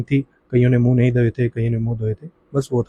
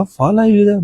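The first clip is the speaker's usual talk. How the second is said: shocked disbelief; 8 semitones higher, 4 dB louder than usual. Retold or imitated. Shocked question at the news.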